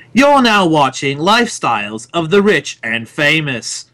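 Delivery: posh British TV announcer; grand British presenter voice; British announcer accent. Retold or imitated. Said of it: "I'm gonna try a British one".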